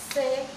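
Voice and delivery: celery split into three spaced beats; syllable by syllable. Shown as a demonstration. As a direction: break celery apart, a pause after each syllable. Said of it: "So there are three syllables".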